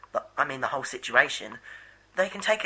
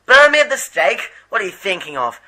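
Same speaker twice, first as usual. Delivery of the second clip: loud, high shocked outcry; outraged shout; 5 semitones higher, 12 dB louder than usual. Acted. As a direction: yell it in disbelief. Commander outraged at plan.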